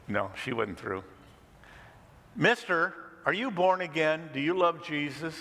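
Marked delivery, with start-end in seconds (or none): 2.4-5.3 put-on higher, eager childlike questioning; a small girl asking innocently; lightly voiced curious child; little girl voice. Little girl asks about Jesus.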